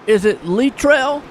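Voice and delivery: "Littrell" with stress on Lit; Littrell as told. Shown as a demonstration. Commentator trying a driver's name the way he was told. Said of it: "that's how he told me to say it".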